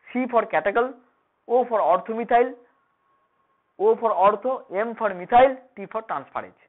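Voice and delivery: slow letter-by-letter spelling; spelled out slowly. Shown as a demonstration. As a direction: spell each letter out clearly. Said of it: "কেটে কেটে উচ্চারণ করবি সবসময়".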